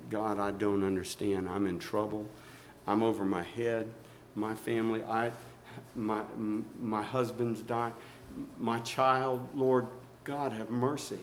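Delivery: low, soft, halting acted prayer; hushed pleading prayer. Believer in trouble praying before the Lord, hushed pleading. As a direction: plead quietly, voice dropped low.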